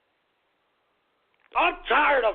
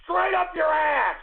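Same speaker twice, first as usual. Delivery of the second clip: angry rant; slower than usual. Acted. Ranting host shouting at callers.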